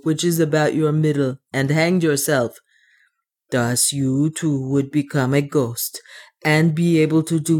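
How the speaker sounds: put-on lightly accented dwarf, mildly mournful; understated gloom in a dwarf's foreign-sounding voice; despairing dwarf. Otter talks aloud to comfort himself, mildly despairing dwarf voice.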